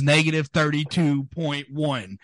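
"negative thirty-two point one" run together, keyed up; excited reveal. Real, not acted. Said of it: "I'm getting excited".

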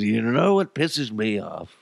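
slow, put-on grumpy old-man rant; ranting neighbor. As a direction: imitate a cranky neighbor starting a rant. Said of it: "he likes to go on rants".

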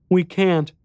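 put-on high, small boy's voice; little boy voice.

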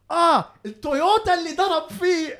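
high, fast mock outburst, not loud; retold yelling. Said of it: "I'm, like, yelling out loud in the guy's face".

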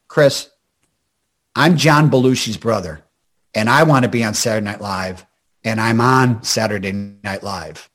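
low, heavy voice of a brother giving advice; a low Jim Belushi imitation. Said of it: "He goes".

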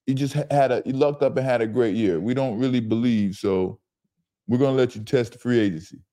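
a hint of a smooth front-office boss letting a player down; polite corporate brush-off, lightly voiced. General manager coolly telling Baker he's not wanted, in a lightly corporate voice. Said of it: "You just went corporate on me".

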